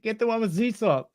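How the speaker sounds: high-pitched grating wife impression; obnoxious woman voice. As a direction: mimic the obnoxious shopper in a high voice. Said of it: "world's most obnoxious voice".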